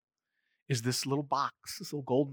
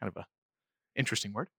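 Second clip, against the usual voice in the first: ordinary delivery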